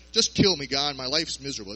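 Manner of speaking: loud petulant plea, sinking at the end; hissy fit. Retold or imitated. Jonah sulking at God, loud petulant whine. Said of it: "does this not sound like a hissy fit".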